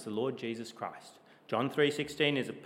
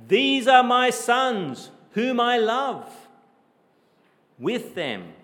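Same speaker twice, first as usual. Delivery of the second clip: slow, loud proclamation of the Father's words; voice of God the Father; 11 semitones higher, 10 dB louder, slower than usual. Acted. A preacher voicing God the Father proclaiming over his sons. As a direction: declare it slowly like the Father from heaven. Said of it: "he says the same things about us".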